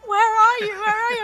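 urgent agents. Retold or imitated. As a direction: play the frantic agents. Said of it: "my agents were like".

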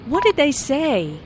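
"say" emphasized, falling at the end; emphasis on SAY. Acted. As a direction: stress "say" and let it drop. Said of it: "is emphasized".

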